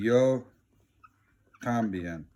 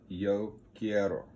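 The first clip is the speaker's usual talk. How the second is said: slow demo; 4 dB quieter, slower than usual. Shown as a demonstration. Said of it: "I'm gonna write it down".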